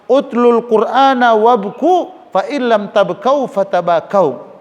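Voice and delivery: very slow, drawn-out Arabic recitation; slow hadith recitation. Acted. Preacher quoting the Prophet on weeping, slow solemn recitation. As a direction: intone each word as scripture.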